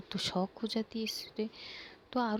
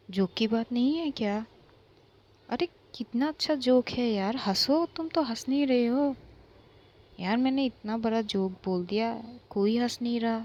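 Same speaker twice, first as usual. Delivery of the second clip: sarcastic taunt; 2 semitones higher, 4 dB louder than usual. Acted. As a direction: goad them mockingly to laugh. Aaru sarcastically urging friends to laugh.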